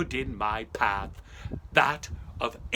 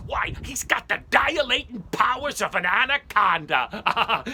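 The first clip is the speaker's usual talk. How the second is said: mocking farmer; 9 semitones higher, 10 dB louder than usual. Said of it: "I would always listen".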